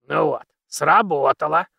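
put-on satisfied old man grunt; creaky pleased old man. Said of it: "удовлетворённо прокряхтел старик".

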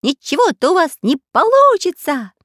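high, loud parrot taunt. Acted. Parrot taunting the prisoners, high squawk. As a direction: squawk it gleefully.

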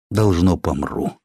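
slow, resigned murmur. A narrator's reading. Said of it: "покорно подумал он".

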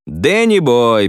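drawn-out, slow hail to a friend; cheerful greeting. Acted. Ivan slowly hailing Danny across the building site, cheerful. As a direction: stretch the name out, glad to see him. Ukrainian greets his mate.

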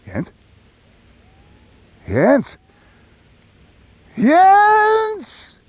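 lauter, höher werdendes Rufen; verzweifeltes Rufen. Acted. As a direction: ihm verzweifelt hinterherrufen. Ruft dem Verschwindenden nach. (verzweifelt nach Jens rufen)

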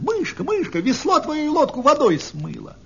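put-on high-pitched children's cry of alarm; high, excited storybook shout; sudden shouted warning. A narrator's reading. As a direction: cry out urgently to warn the mouse. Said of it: "Вдруг кричат ей ребята".

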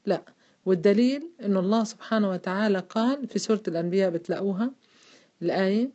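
ordinary delivery

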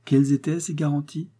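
wife repeats her question, insisting; insistent repeat. Acted. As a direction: press him for the answer. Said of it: "Sa femme dut le lui redemander".

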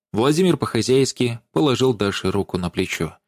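ordinary delivery, nothing marked

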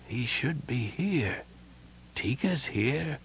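growing fainter. A narrator's reading. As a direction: struggle through it softly, confused and fading. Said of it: "his voice beginning strong but growing fainter".

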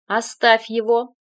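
slow, loud order; commanding. A narrator's reading. Mother ordering her son to let go, commanding. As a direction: stop him cold with one command. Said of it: "повелительный голос".

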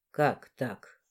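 low, short man's question; low male voice. Acted. Boss asks her to explain, low voice.

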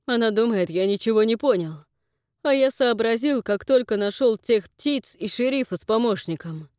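loud, high, slowing at the end; frightened, loud accusing voice; nervous accusation. Acted. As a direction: accuse her with a shaking nerve. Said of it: "Фрэнк нервно хмыкнул".

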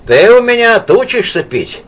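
high, loud shout; wife shouting at him about drinking. A narrator's reading. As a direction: yell it at him, scolding. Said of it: "крикнула Лида".

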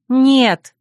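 выше и громче, резкое «Нет!»; выкрикни решительно; горячий возглас. Acted. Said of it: "воскликнула я". (горячее восклицание)

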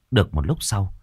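ordinary delivery

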